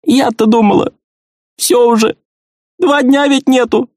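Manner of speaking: put-on an old wife close to crying; high tearful old woman's reproach; tearful relief. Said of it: "Её глаза увлажнились, и по щекам потекли слёзы".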